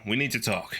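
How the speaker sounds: low, serious request to talk; serious manner. Acted. Manager summoning an employee for a talk, serious. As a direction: say it gravely, pitched a little down. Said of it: "He says in a serious manner".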